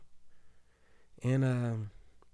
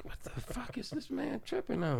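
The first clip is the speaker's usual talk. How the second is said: whispered thought; 10 semitones higher than usual. Retold or imitated. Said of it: "I'm like".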